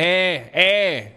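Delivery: imitated Texan pal on the phone; Gary. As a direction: call out for a buddy in bro speak. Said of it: "And he called up and he".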